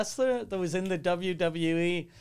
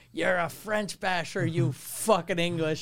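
mock angry commenter; 2 semitones higher, 5 dB louder than usual. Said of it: "I love people going".

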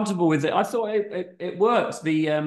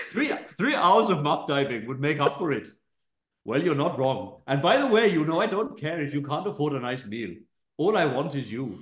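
put-on Indian accent. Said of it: "gonna plump on Indian".

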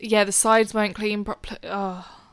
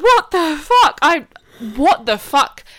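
higher, louder stunned outburst; retold disbelieving rant; 3 semitones higher, 5 dB louder, slower than usual. Sister ranting at the siblings, disbelieving. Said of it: "and I'm like".

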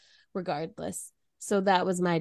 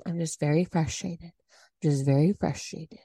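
forced calm; 5 semitones lower than usual. Retold or imitated. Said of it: "'cause I was trying not to be mad".

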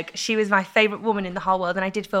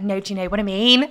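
louder, twanging Scouse; Scouse accent; 6 dB louder than usual. Retold or imitated. Chatting together with Vic, twanging Scouse accent. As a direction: imitate your own Scouse twang. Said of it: "twanging in Scouse".

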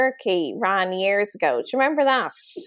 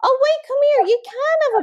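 mock realisation; 12 semitones higher, 4 dB louder than usual.

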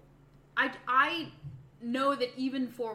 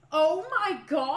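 shocked gasp; 5 semitones higher, 3 dB louder, slower than usual. Real, not acted. Shocked reaction to story.

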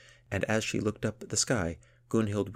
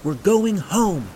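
slow, high, full-force yell; shouting over wind; 13 semitones higher, 13 dB louder, much slower than usual. A narrator's reading. Gunhild to her friend over the roaring wind, shouting. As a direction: stretch the words out over the roar. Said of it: "shouted Gunhild over the roar of the wind".

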